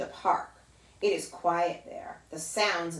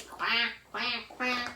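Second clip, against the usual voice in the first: only slightly raised quacks from a shy big duck; 4 semitones higher, slower than usual. Retold or imitated. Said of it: "The big ducks say".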